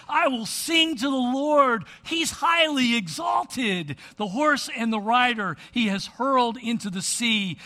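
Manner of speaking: preacher reading a victory song to the congregation, ringing out; proclaiming scripture. Acted.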